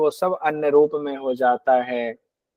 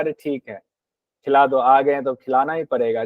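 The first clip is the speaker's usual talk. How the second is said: grudging; 3 semitones lower than usual. Retold or imitated. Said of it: "मध्यम भाव से अतिथि की सेवा".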